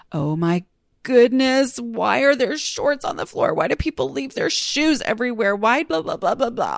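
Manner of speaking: exasperated mother, mildly hammed-up; mock nagging. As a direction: complain about shoes everywhere, half-joking. Acts out nagging family about mess.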